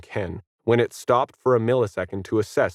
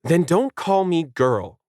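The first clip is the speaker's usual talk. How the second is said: put-on slow, higher dog-girl voice; growled; 8 semitones higher than usual. A narrator's reading. Dog insisting on respect, growling. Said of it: "Planet growled".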